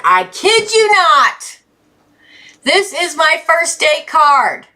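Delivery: high, drawn-out exclamation of disbelief; real astonished excitement; amazed insistence. Real, not acted. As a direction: insist slowly and excitedly, pitch way up.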